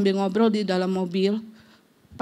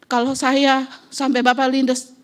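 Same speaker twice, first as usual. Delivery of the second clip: a retold scolding that builds higher and louder; 4 semitones higher, 4 dB louder than usual. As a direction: tell off the rider, rising to a shout. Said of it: "sampai saya maki-maki juga".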